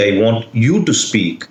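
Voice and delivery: "you" picked out, falling after; single out "you" as the one to speak; stress on YOU. Shown as a demonstration. Teacher picking who should talk, stress on "you". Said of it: "the stress on the word you changes the meaning".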